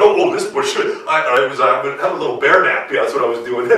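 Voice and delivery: low, loud, sheepish bear fibbing; flustered bear excuse. Acted. Bear fibbing to Fox about napping, low and flustered. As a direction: fumble the excuse as a caught bear.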